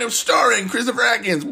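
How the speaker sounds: hammed-up credits announcer; trailer announcer. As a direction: announce it like a cheesy film trailer. Reading the opening credits.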